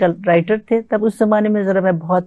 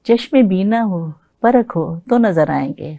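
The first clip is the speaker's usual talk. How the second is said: ghazal recitation. Acted. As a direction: recite it like at a mushaira.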